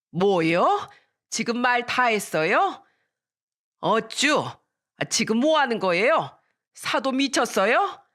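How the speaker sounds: 높고 느리게 몰아붙이며 따지기; 기막혀하며 쏘아붙이기. Retold or imitated. 사돈끼리 싸움. (사돈끼리 싸우며 흥분해 따짐)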